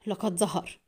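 hushed tense report; low, tense voice. A narrator's reading. Forger secretly reporting by phone, low and tense. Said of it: "في صوت خفيض متوتر".

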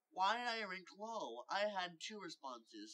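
indignant query, slowing at the end; questioning. Acted. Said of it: "Spicy questioned".

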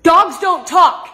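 exasperated shout. Acted. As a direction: yell it out, fed up. Yelling at sibling's dog voice.

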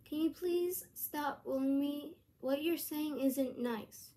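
polite, mild request; asking nicely. Shown as a demonstration. Vlogger showing how to politely ask a bully, nicely. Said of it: "you can ask them nicely, like".

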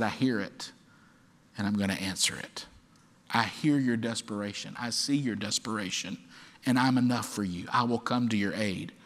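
soft, low, steady promise; gentle reassurance. Acted. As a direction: quietly reassure someone who cried for help. Voices God's reassuring answer.

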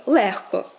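легко stressed on ЛЕГ-; adverb stress. Shown as a demonstration. Teacher contrasts the adverb, легко stressed on first syllable. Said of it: "мають такий наголос".

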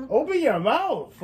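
loud, slow, high insistence; loud insistent order. Real, not acted. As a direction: stretch it out, insisting loudly. Urging partner again, insisting.

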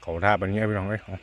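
speaking between bites; talking while chewing. Real, not acted. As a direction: mouth partly full of food. Seen 0: Ate just before; lips and cheeks move as if chewing while speaking.

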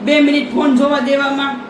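loud scolding rant. Real, not acted. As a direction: tell her off for hiding the phone. Mother scolds daughter over phone.

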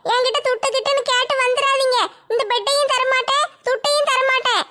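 put-on a stubborn girl holding her ground; young woman Nimmi. Nimmi defiant.

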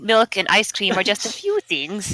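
light put-on German accent. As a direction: read aloud with an attempted German accent. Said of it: "Everybody has to do their best German accent".

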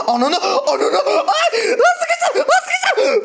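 high shrieking laugh-scream, caught off guard; terrified giggling yell, real fright; panicked laughing scream. Real, not acted. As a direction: shriek and laugh at once as the monster chases you. Jumpscared by monster in game.

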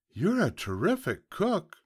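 very high piglet voice; flattering piglet. Acted. Piglet praising the fox's dinner, high-voiced.

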